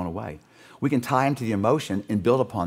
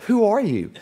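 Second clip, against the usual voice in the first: amused, higher pitched question through a laugh; laughing pastor's question; 7 semitones higher than usual. Retold or imitated. Preacher retelling the pastor meeting Colton, laughing. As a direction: chuckle it out as the startled pastor.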